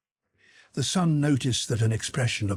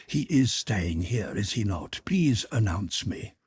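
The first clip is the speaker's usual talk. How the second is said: lightly voiced pleading mother; 2 semitones higher than usual. Mother asking the hall porter to announce her, lightly insistent. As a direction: press politely but firmly.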